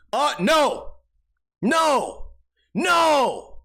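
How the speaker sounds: high, loud, falling repeated no; exasperated refusal. Acted. Cutting off friend quoting the movie, exasperated. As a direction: escalate each no in mock outrage.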